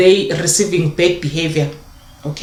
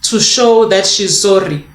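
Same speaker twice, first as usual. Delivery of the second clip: put-on light child voice; 2 semitones higher than usual. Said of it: "the child will say".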